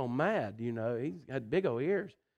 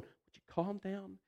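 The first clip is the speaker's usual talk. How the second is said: exasperated parent; 7 semitones higher than usual. Retold or imitated. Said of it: "you're just looking at them going".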